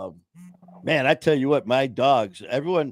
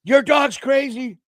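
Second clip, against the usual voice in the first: imitating mom; 12 semitones higher than usual. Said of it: "And she goes".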